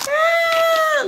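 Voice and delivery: loud, high drawn-out cry; real whoop after laughing. Real, not acted. Reader overcome by the fuckery, crying out loudly. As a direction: let out a piercing "ah" as the laugh peaks.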